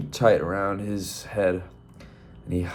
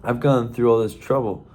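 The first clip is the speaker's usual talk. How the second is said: indignant rooster; 4 semitones higher than usual. Acted. Roy protests to the monk.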